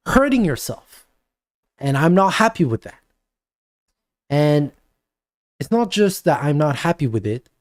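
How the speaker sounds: lightly voiced parent lecturing his daughter; nagging, insistent parent, mostly in his own voice; typical lecturing parent. Shown as a demonstration. Parent calls daughter Vanessa down to lecture her, mildly insistent. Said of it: "talk like most of you parents talk".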